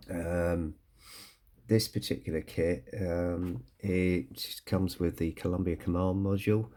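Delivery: croaky voice, a touch of man flu. Real, not acted. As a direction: talk through a croaky, sore throat. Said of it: "excuse my croaky voice".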